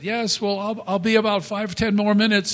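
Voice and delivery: wife's voice. Retold or imitated. Wife answering from upstairs.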